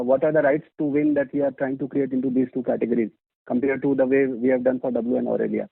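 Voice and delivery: ordinary talk, nothing marked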